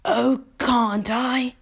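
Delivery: high, very slow, playful challenge; teasing old grasshopper. A narrator's reading. Old grasshopper challenges James's guess, playfully teasing. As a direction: tease him with drawn-out words.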